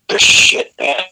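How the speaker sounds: hushed, reverent whisper; awed whisper. Retold or imitated. Lou describing meeting his idol, awed whisper. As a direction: breathe it out in awe. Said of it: "he just smiled".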